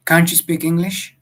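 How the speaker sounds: exasperated. Acted. Exasperated settler to foreign rider.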